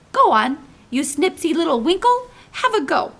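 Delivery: laughing, coaxing giant; teasing laugh. A narrator's reading. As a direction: chuckle as you egg her on.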